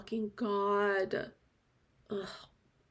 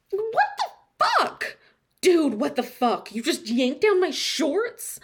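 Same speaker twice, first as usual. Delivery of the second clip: loud shocked outrage; outraged shout; 4 semitones higher, 5 dB louder than usual. Acted. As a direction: yell at the friend in disbelief. Shorts yanked down, outraged.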